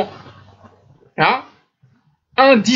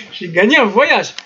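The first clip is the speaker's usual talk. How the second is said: laughing through the mocked quote; slow, amused delivery breaking out of a laugh; real laugh while imitating a dupe; hearty laughter. Real, not acted. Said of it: "Je ris de bon cœur".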